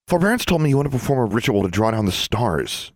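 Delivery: a hint of an excited schoolgirl; Sonia.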